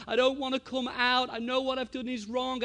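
put-on upset child. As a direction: lightly act out a tearful child pushing back. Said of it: "he's just sobbing".

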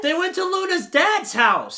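loud, high triumphant shout; excited realization. Real, not acted. Interrupting with the forgotten plot point, excited shout. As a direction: blurt it out at full volume.

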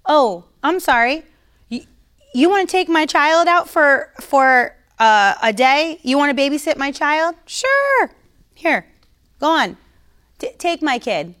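bright, eager mock offer of the child; overly willing parent, hammed up; mocking a careless parent handing over a child; mock cheerful giveaway. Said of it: "let robbers come in our house and say".

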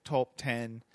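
attempted Australian accent on a countdown title; badly faked Australian accent. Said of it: "I cannot do an Australian accent".

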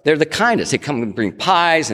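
bright high gush of praise. Retold or imitated. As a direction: rave about them, beaming. Gushing about Texans.

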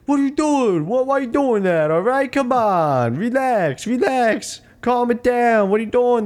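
exaggerated high-pitched protests, sliding down each phrase; mock coach pleading. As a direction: whine like a useless coach begging for calm. Mocking coach's endless futile protests.

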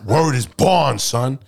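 put-on New York accent. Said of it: "I can't even do a sturdy New York accent".

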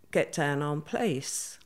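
lightly imitated Irish accent. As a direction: retell it with a hint of Irish. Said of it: "he said in an Irish accent".

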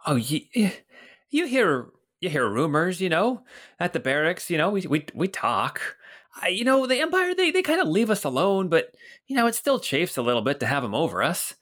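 put-on high, hearty old watchman greeting a friend; Bert the old guard. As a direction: boom out a cheery hello as a portly guard. Bert talks of the barracks.

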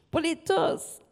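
holding back tears while speaking of time away from family; getting emotional. Real, not acted. Worship leader sharing what her travel costs, near tears. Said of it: "I'm gonna get emotional".

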